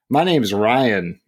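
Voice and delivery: slow, cheerful, unbothered; imitating a friend's sunny name correction; upbeat correction. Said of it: "he would say it kind of upbeat like that".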